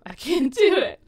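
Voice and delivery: high, frightened little voice; quoting a nervous girl's line; scared whimper. Retold or imitated. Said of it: "goes from chipper to".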